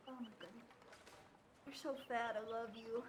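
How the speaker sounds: cooing. Real, not acted. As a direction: coo lovingly at a pet. Cooing at fat cat.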